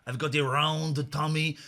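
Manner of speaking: put-on slow, lightly done Indian accent. Host joking with a caller about his tummy, Indian accent. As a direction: slip into a mild mock Indian accent. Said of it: "I started doing an Indian accent".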